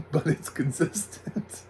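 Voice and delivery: laughing. Real, not acted. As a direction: draw it out through real amusement. Repeats the joke, laughing.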